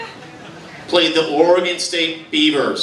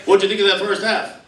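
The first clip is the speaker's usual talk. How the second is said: lightly voiced commentator; sports announcer; 3 semitones higher than usual. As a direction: toss the question to your co-host, deadpan. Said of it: "how would the announcers be able to keep a straight face".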